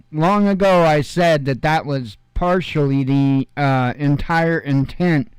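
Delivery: muddy, boomy mic sound. Real, not acted. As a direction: dull boomy tone through the mixer. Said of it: "let me try to unmuddy my voice".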